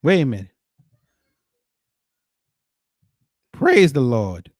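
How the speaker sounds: drawn-out Praise the Lord, said out loud and slow; loud churchy Praise the Lord, in a mock church voice. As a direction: call out Praise the Lord slowly like a church response. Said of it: "my wife ain't hear me say that".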